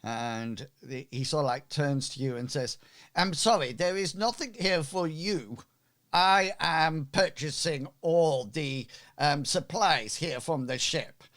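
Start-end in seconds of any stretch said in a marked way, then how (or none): 3.2-11.2 a touch higher, haughty merchant. Acted. Merchant turning away newcomers, haughty. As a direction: brush them off as a proud trader.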